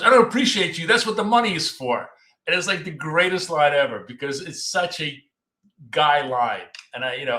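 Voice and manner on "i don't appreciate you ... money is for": blunt Don Draper retort. Retold or imitated. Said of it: "he goes".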